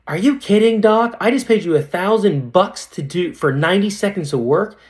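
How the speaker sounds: high-pitched mock outrage; imitated angry patient. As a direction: play an indignant customer protesting the bill. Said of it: "and she was mad".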